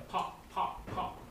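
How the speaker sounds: short separate pops; popping sounds. Pretend. Reader imitates Mister Brown's noise, short pops. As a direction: pop it out like a cork. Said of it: "He can sound like a pork".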